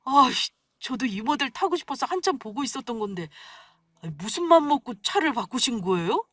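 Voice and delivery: gushing, pitch jumping up on 우와; husband gushing over mother-in-law's Benz; fussy excitement. A narrator's reading. Husband fawning over mother-in-law's new car, gushing. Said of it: "더 호들갑스럽게 굴었습니다".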